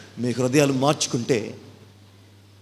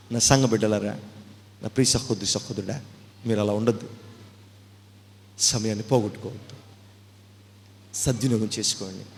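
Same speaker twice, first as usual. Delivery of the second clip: soft, lower pastoral plea; tender exhortation; 3 semitones lower, 3 dB quieter than usual. Acted. Pastor gently urging his beloved flock. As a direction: gently urge them.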